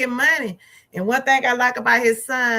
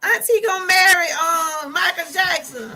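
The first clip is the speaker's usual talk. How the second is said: put-on excited little boy telling on his auntie; little son; 6 semitones higher than usual. Little son telling mama auntie will marry a famous singer, excited child. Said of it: "he said".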